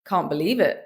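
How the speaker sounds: dry, unmoved British sarcasm; deadpan sarcasm. Shown as a demonstration. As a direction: say it deadpan, with no reaction at all. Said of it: "Say it deadpan".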